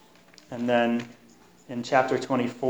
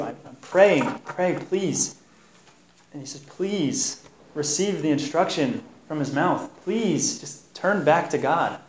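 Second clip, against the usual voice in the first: higher, earnest begging plea; pleading with a friend; 3 semitones higher than usual. Retold or imitated. Friend pleading with Job to turn back, raised earnest begging. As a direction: beg him gently to come back. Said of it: "he's still begging Job".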